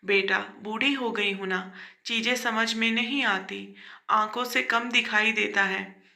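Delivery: put-on old mother soothing her grown son, mildly tender; lovingly. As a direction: answer the son gently and fondly. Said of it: "बड़े प्यार से जवाब दिया".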